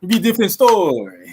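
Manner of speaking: playful attempt at a Russian accent. Shown as a demonstration. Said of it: "let me hear your best Russian accent".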